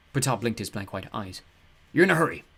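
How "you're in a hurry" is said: cheerful god voice. Acted. Ptah speaks.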